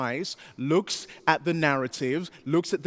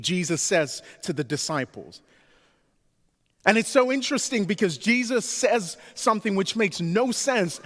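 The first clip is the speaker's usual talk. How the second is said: ordinary delivery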